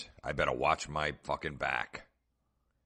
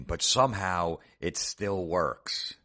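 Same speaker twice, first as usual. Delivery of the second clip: mock-sentimental reading; 2 semitones higher, 3 dB louder, slower than usual. Reading a sappy meme aloud.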